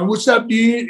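high excited shout; pumped greeting called across the room; hyped greeting. Retold or imitated. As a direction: holler it at him, buzzing with nerves. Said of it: "I'm going nuts".

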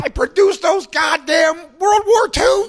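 mock old producer. Mocking the video's rich father, pompous shout.

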